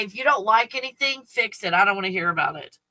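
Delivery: mock neighbor retort. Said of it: "when they arrive to say".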